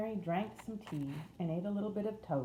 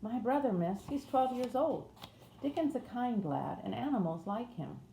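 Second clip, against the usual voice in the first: higher-voiced Yorkshire housemaid; broad Yorkshire accent; 7 semitones higher than usual. A narrator's reading. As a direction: wake them in broad Yorkshire, pitched up. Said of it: "in a broad Yorkshire accent".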